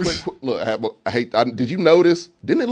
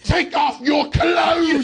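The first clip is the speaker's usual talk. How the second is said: mock commanding shout; 8 semitones higher, much slower than usual. Mocking Victor, a slow hammed-up order to strip. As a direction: bark it like a creepy host. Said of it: "he's like".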